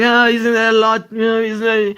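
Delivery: lightly voiced reporter; interviewer's voice. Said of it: "And like".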